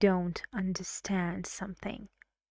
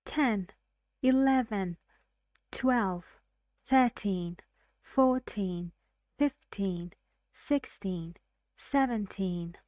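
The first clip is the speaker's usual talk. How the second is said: put-on each number set apart, THIR-teen, FOUR-teen, FIF-teen; counting stress. Shown as a demonstration. Teacher counts numbers one after another, stress on first syllables. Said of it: "we move the stress on the first syllable".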